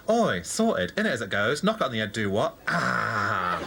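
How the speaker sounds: lightly voiced East End gangster; hint of a London tough-guy catchphrase patter; put-on gang voice. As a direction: try out a mild undercover geezer voice. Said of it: "And the voice. Listen".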